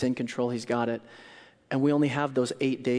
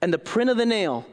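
stubborn refusal; 4 semitones higher, 4 dB louder than usual. Acted. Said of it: "So he said to them".

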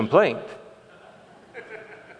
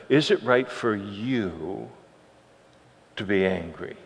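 much softer, slowed question; gentle question; 5 semitones lower, 7 dB quieter than usual. Retold or imitated. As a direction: let the question land quietly. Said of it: "the Lord tries to reason with him".

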